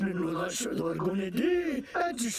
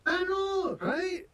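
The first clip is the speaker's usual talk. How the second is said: fake Scottish accent. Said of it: "what the hell kind of accent is that, you fake-ass Scottish nonsense".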